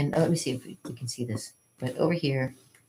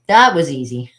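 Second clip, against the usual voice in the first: smug dragon; 10 dB louder than usual. Acted. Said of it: "And it's like".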